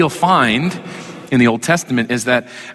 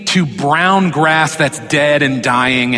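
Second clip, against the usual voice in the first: mock King James voice; slower than usual. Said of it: "He doesn't say".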